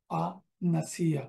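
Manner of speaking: ফানাসিয়া said slowly, each syllable stretched; slow teaching demo of ফানাসিয়া; slow drawn-out pronunciation. Shown as a demonstration. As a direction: spell out ফানাসিয়া slowly for students. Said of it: "teacher repeats the word slowly".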